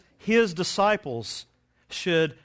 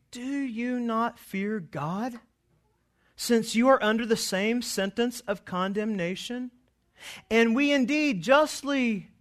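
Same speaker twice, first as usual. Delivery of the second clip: rebuking criminal; 6 semitones higher than usual. Retold or imitated. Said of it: "the other rebuked him".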